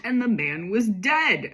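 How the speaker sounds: slow, emphatic mock-dramatic exclamation. Reader hamming up a story's cliffhanger line, exclaiming. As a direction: punch it like a written exclamation point. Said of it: "Exclamation point".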